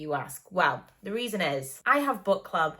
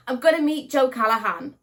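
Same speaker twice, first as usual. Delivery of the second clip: louder, higher burst of real excitement; excited repeat; 5 semitones higher, 7 dB louder than usual. Real, not acted. Vlogger telling viewers she'll meet her favourite author, excited. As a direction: say it again, thrilled to meet an author.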